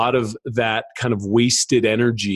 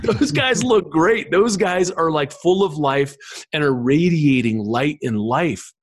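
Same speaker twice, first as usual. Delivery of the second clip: higher, slower, full of admiration; enthusiastic; 5 semitones higher, slower than usual. Real, not acted. Speaker telling the host about glowing masters, enthusiastic. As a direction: savour how alive they look.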